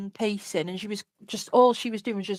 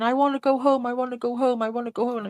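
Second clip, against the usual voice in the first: mild mock scream, starting higher then fading; retold screaming plea; 3 semitones higher, faster than usual. Child screaming at captor to go home, toned down. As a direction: repeat it like a distressed child, dropping each time. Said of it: "I just remember screaming".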